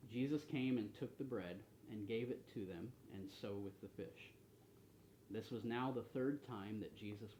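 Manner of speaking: measured, deliberate Bible reading; scripture reading. A narrator's reading. Bible study leader reading the Gospel to the group, measured reading. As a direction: read the passage aloud to the group, pausing between phrases.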